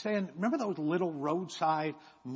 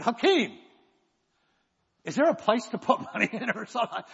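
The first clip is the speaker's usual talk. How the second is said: calling back; 6 semitones higher, 4 dB louder than usual. Retold or imitated.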